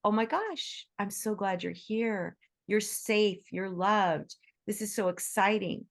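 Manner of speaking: bright, delighted welcome to a scared shelter dog; cheerful greeting to a dog. Retold or imitated. Volunteer welcoming a frightened shelter dog, delighted. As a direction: greet the dog with real joy. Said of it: "we can say".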